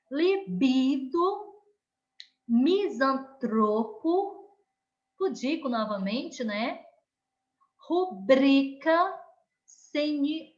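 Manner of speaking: teacher modelling paroxytones one by one; stressed syllable demo. Shown as a demonstration. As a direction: say each word slowly and lean on the stressed syllable. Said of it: "Olha o som da penúltima mais forte".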